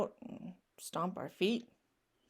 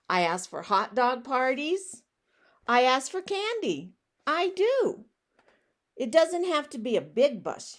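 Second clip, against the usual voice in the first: indignant pigeon; 4 semitones higher, 5 dB louder than usual. Acted. Pigeon lists his requests.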